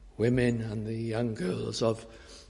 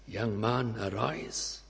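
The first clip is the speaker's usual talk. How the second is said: hushed command; 2 semitones lower, 6 dB quieter, slower than usual. Acted. Christ touches the coffin.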